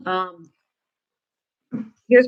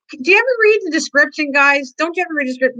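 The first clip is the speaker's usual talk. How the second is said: mock annoyed; 6 semitones higher than usual. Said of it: "I was getting annoyed and I wanted to say".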